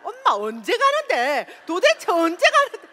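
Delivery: whiny demand rising to a loud cry; nagging child. Retold or imitated. Son pesters his mother about her promotion, rising to a loud whine.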